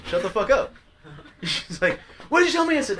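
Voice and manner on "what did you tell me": high, loud indignant challenge; retold yelling. Date challenging the driver, mock indignant yell. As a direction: mimic her outraged demand. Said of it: "So we're yelling at each other".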